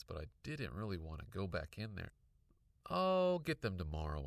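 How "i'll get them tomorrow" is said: raised voice, higher; said out loud. A narrator's reading. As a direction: call it out firmly. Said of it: "I said out loud".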